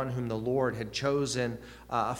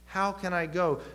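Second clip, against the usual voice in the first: higher-pitched, falling challenge on the question; incredulous question; 6 semitones higher than usual. Shown as a demonstration. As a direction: question it as if doubting it can be done. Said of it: "him asking it incredulously".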